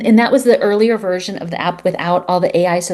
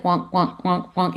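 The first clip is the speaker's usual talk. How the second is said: soft imitated Pac-Man gobbling sound, wonk wonk; Pac-Man chomping noise; 5 dB quieter, slower than usual. Dad eating cancer cells in his mind, mock chomping. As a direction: chomp it out like a little video game eater. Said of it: "He even made the sound".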